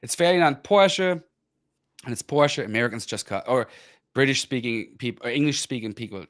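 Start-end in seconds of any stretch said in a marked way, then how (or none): 0.2-2.6 Ferdinand Porsche with sounded final E; German pronunciation. Shown as a demonstration. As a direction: slowly show Porsche as "POR-shuh". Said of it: "they just cut the E off".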